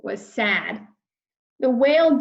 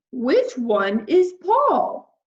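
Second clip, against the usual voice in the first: friendly whale voice; 3 semitones higher, much slower than usual. Acted. Whale greeting lost Peter, big and friendly. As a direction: boom out a kindly hello.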